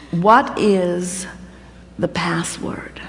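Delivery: a hushed machine voice asking for a password; low whispered computer prompt; talking calculator voice. Pretend. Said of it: "It says".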